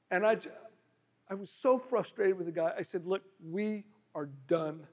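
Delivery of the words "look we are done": flat finality. Retold or imitated. Retold cutting off the man.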